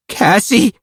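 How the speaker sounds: high, contained scream. A narrator's reading. Narrator calls to a lost friend, screaming. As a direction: cry out the name in a high voice. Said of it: "I screamed".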